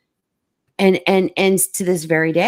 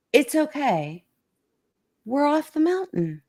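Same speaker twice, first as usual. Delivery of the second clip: calm reassurance; 9 semitones higher than usual. Retold or imitated. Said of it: "he was all calm".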